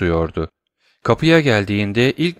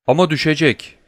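cry out; 6 semitones higher than usual. Acted. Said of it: "diye haykırdı Morel".

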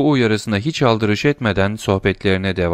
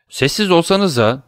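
shouted hush; 8 semitones higher than usual. A narrator's reading. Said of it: "diye bağırdı parterdekiler".

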